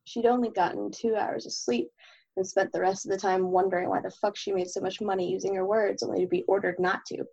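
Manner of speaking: steady, even novel reading; story narration. Acted. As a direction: read the chapter aloud evenly. Reads chapter of own novel.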